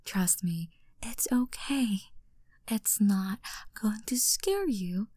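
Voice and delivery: soft reassuring whisper, close to the ear. Acted. Mommy to her baby boy before a surprise, whispering. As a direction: hush him gently so he trusts you.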